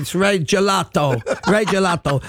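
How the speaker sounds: put-on a touch of French accent on the name. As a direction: mimic a Frenchman announcing a name. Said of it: "in this French accent".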